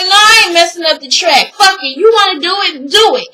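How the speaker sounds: imitating a son's angry outburst; angry retort. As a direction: snap back at your mother. Son yelling back at mother.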